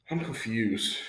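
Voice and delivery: gentle, respectful check-in; polite asking. Shown as a demonstration. Student politely asking coach about mixed signals, polite. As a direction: softly admit confusion, politely. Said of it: "politely ask them".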